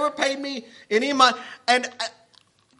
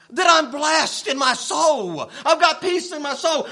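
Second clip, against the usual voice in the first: preaching shout; 2 semitones higher than usual. Real, not acted. Preaching climax.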